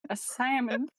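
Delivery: put-on rising try at Turnip's accent; Turnip's accent attempt. Player still practising the safe word, attempting Turnip's accent. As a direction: have another go at Turnip's accent. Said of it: "trying that accent".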